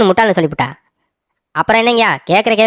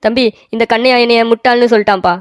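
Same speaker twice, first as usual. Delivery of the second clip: crying; 3 semitones higher than usual. Acted. Crying complaint to brother.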